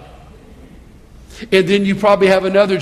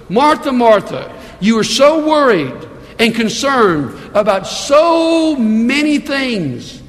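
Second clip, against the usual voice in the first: slow, higher, earnest Jesus; Jesus' hard truth; 4 semitones higher, slower than usual. Acted. Pastor reads Jesus rebuking Martha, slow earnest voice. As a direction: speak it slowly like a gentle rebuke. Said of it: "He says these words".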